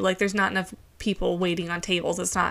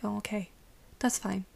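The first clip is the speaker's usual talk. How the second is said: fake fine; 8 dB quieter than usual. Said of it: "be really upset about it on the inside".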